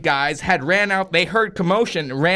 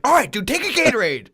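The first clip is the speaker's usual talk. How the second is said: quick, higher retold giving-in; mock panicked surrender; 5 semitones higher, faster than usual. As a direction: hand it over in hammed-up alarm. Robbed teammate gives in, retold.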